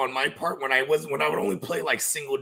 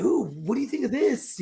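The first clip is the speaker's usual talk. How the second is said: embarrassing dad joke; 7 semitones higher than usual. Retold or imitated. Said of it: "I'd be like".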